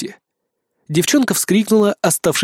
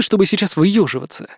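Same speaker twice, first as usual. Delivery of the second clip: plain reading voice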